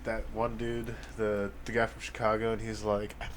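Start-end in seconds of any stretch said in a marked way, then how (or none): 3.2-3.3 rising into a shrieking laughing yell; mock furious yell cracking into laughter; angry rant. Quoting angry Chicago character.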